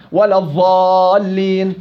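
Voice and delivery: الضالين with ض said as ظ, slow; slow Jordanian ظ for ض; Jordanian dhaa. Shown as a demonstration. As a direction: say الضالين as ظالين slowly. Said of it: "يلفظها الضاء، الأردنيين".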